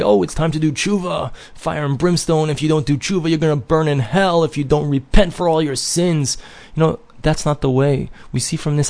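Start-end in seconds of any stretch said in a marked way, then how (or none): 0.0-6.4 a mild send-up of a doom preacher warning of hell; mock fire and brimstone. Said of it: "it's common for people to say".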